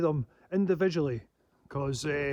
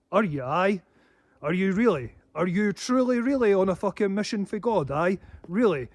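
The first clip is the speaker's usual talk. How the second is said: higher, louder sarcastic disbelief; scornful challenge; 3 semitones higher, 5 dB louder than usual. Real, not acted. Scoffing at attackers, loud and sarcastic. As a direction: needle them with each question.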